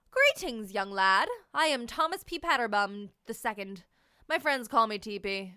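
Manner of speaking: put-on a pompous, stately old gentleman; grand gentleman. Jumbo marshmallow greeting the young lad grandly. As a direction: introduce yourself with grand dignity.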